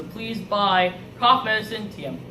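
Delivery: halting, subdued pitch to buyers; reluctant sales plea. Acted. Hostage spokesperson urging viewers to buy cough medicine, subdued plea. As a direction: make a dutiful, uneasy sales plea.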